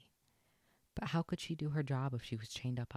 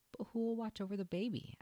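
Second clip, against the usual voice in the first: Lady's voice; 11 semitones higher than usual. A narrator's reading. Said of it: "asked Lady".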